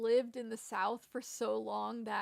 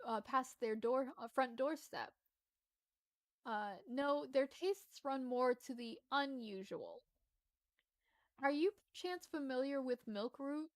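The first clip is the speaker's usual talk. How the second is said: slightly lifted, lilting storytelling read; lightly performed quest-giver reading; game dialogue read-aloud; 3 semitones higher than usual. Acted. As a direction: read out a quaint fantasy character's lines. Reads game character dialogue aloud.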